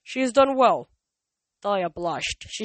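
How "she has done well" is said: grumbling. A narrator's reading. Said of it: "Zeus grumbled".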